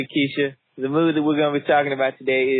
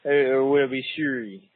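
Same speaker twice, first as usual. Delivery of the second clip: put-on a weak, barely-there Canadian accent; joking about fleeing to Canada, mock Canadian accent; bad Canadian accent; 5 semitones lower than usual. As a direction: try a Canadian accent and miss. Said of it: "That was the worst Canadian accent".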